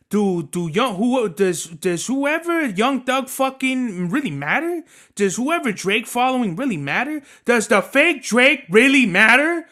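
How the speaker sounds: rising, rhetorical and fed up; exasperated questions. Real, not acted. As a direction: press each question harder. Rising rant about celebrity gossip.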